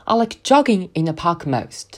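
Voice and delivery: "jogging" stretched and stressed. Shown as a demonstration. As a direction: lean on "jogging" and draw it out. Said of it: "突出词…拉伸，并且重读". (重读并拉长"jogging")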